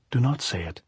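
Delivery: lightly voiced girl's plea; pleading. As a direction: implore her to stop, pitched a little up. Maria begs Pilar to stop.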